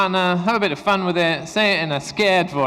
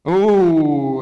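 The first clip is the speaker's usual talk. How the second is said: impressed ooh; 7 dB louder than usual. Real, not acted. Teacher reacts to deletion.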